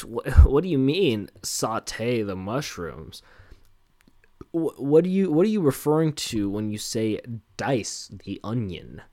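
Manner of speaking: cartoonish baffled questions; mock confused normie. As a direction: ham up a clueless home cook. Mocking a confused kitchen novice.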